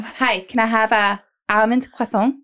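croissant with a French nasal ending; put-on French accent. Shown as a demonstration. Demonstrating own coffee-shop order, French-tinged accent. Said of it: "What is with the accent?".

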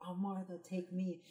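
quiet, despairing surrender; soft plea. Retold or imitated. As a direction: breathe it out, giving up. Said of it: "I was like".

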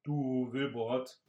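casual. Acted. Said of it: "fragte Bran beiläufig".

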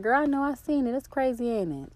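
high, chirpy agreement; bright friendly reply. Retold or imitated.

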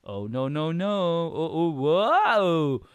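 drawn-out, rising cartoon cry of alarm; mock panicked wail. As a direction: wail in fake helpless horror. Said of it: "his expression was just like".

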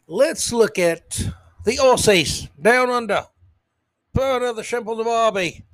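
mock Australian bloke, loose and playful; Australian accent. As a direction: lay on a bad Australian twang. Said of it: "I probably butchered the Australian accent".

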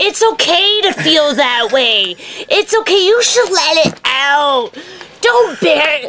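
slow, soothing mock-therapist voice; lightly put-on gentle comforting voice; gentle comforting friend. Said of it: "he's like".

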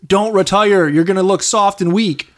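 loud and slow, drawn out. Retold or imitated. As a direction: hammer the warning home. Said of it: "all Tom Brady hears is like".

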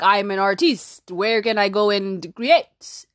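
mock-tortured artist, lightly hammed; dramatic tortured artist. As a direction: play the suffering artiste, half joking. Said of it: "I just like acting dramatic and tortured like one".

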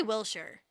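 Wiltshire said "WIL-sher", no T; dropped T. Shown as a demonstration. Host guesses at the local way, Wiltshire as "WIL-sher". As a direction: drop the T from Wiltshire, short "sher" ending. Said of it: "You probably don't pronounce the T".

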